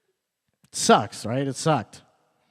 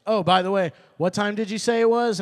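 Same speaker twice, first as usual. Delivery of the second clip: mock officer; 6 semitones higher, 4 dB louder than usual. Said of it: "a T S A officer goes".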